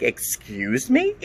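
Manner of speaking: a drawn-out, incredulous challenge; retelling her stunned reply to the tester, high and slow; shocked excuse me. Retold or imitated. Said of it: "I was like".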